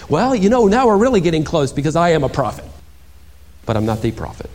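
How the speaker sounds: lightly voiced, self-pleased then dropping; brag, then back off; a hint of bragging. Imagined John answering the priests, lightly self-pleased. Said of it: "He could have answered".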